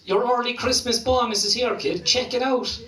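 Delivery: high, hyped-up friend; excited announcement. Retold or imitated. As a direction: announce it high, like a mate with great news. Friend announces free money.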